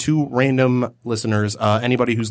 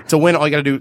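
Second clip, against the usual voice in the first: ordinary delivery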